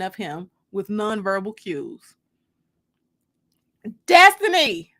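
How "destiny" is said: high, loud call across the house. A narrator's reading. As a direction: call her name from another room. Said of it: "she called out".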